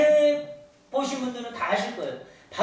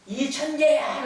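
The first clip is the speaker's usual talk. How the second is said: higher, drawn-out mock call; mountain echo; 4 semitones higher, slower than usual. Mountain answers the boy, higher mock echo call. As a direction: imitate a shout coming back from the hills. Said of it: "산에서 다시".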